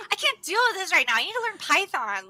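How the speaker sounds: high, hurried stressed-out outburst; mock stressed. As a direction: play up being overwhelmed, half laughing. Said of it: "now when we're stressed".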